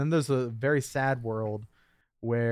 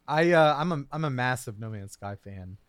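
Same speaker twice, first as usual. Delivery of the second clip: voice cracking. Real, not acted. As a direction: voice cracks mid-sentence. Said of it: "my voice just cracked".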